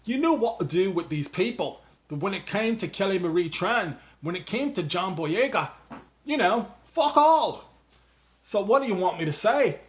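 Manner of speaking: loose mock British accent, quoting Boyega; a hint of London 'mate' British accent; put-on British accent. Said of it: "I don't know what accent I'm doing now".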